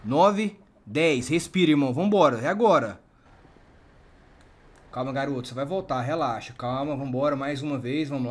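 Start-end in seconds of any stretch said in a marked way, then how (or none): 0.0-3.0 loud, driving encouragement on the count; urgent shout. Real, not acted. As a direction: push him to breathe, raising your voice. Urging a shot man to breathe.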